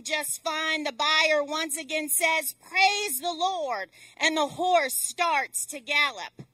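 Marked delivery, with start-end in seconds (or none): 2.5-3.9 slow, projected command; an unhurried, raised call; rider's call to go. Acted. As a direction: draw out the call to the horse. Buyer urges the horse on.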